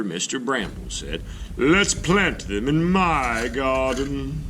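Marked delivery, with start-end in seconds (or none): 1.6-4.4 high, slow kindly neighbor voice; friendly old neighbor. Acted. Neighbor Mister Bramble suggests planting, slow and high. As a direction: offer it like a gentle old neighbor.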